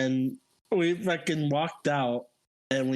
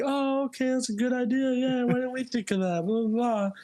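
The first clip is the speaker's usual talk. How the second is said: high, sing-out mock agreement; high-pitched retold chorus of approval; 10 semitones higher than usual. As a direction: imitate everyone agreeing in a raised voice. Retold group agreeing to an idea.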